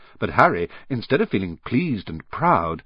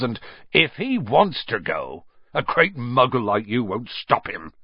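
growled. Acted. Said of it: "growled Hagrid".

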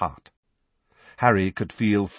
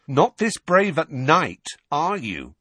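higher, louder taunt; jeering challenge, pitched up; sneering; 10 semitones higher, 5 dB louder than usual. A narrator's reading. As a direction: sneer it at him. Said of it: "sneered Dudley".

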